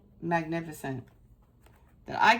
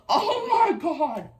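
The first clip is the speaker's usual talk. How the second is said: slow, higher, laughing through the words; 9 semitones higher, 4 dB louder, much slower than usual. Real, not acted. Reader laughs at her own silly voice. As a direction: let the laugh carry it.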